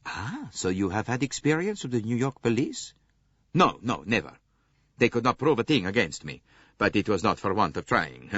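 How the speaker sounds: a hint of a blustering Italian; a touch of brash Italian bravado; lightly voiced Italian man. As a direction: swagger a little, amused. Foscarelli the Italian, boastful.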